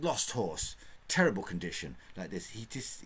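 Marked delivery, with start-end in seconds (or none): 0.0-2.0 Jingle's clipped notes. Retold or imitated. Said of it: "he speaks in notes".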